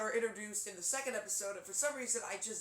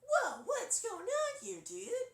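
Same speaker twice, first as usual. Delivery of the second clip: much higher, slow surfer voice; squeaky little surfer kid; higher surfer dude; 6 dB louder, much slower than usual. Acted. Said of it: "lighter pitch version of that".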